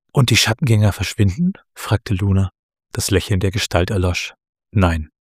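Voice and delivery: measured storytelling with lightly voiced dialogue; story narration. A narrator's reading. Author reads Luna's meeting at the tree, story narration. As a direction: read the tale aloud, lifting the characters' questions.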